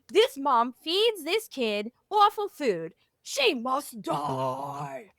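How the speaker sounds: slowing to a drawn-out doom line; hammed-up goblins passing sentence; mock sinister verdict, dragged out at the end; theatrical goblin voice. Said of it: "that was my very theatrical".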